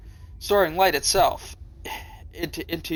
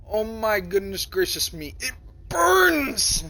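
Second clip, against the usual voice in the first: real-me take; 5 semitones higher, slower than usual. Shown as a demonstration. Player redoes the line as his real self, high squealing take. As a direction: do it as he would really say it. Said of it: "to audio it like real me".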